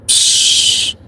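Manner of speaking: whispered shh; hushing. Retold or imitated. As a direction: hush him without a sound. Hushing a friend across the room.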